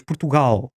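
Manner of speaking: "Portugal" with reduced first vowels, weight on "gal"; stress on GAL. Shown as a demonstration. Linguist showing European Portuguese rhythm, stressed final syllable. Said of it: "até muito rápido, porque tudo o que não é a sílaba tónica".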